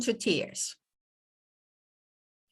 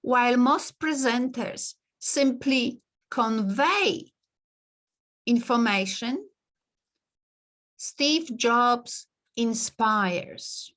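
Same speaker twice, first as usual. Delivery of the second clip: slow clear repeat; slower than usual. Shown as a demonstration. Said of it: "I will tell you what he said".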